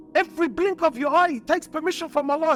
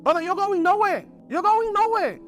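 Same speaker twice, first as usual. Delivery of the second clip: higher-pitched, emphatic no to a son; firm fatherly refusal; 4 semitones higher than usual. Acted. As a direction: put your foot down as the father. Father refusing his young son.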